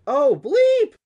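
high, loud cry of dismay; startled, dismayed yelp; alarmed exclamation. Acted. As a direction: blurt it out as the danger sinks in. Dusty hears brother is inside.

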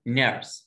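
نيرس with a short er sound; model word. Shown as a demonstration. Teacher modeling نيرس. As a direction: say نيرس clearly, no long e. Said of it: "قلت نيرس".

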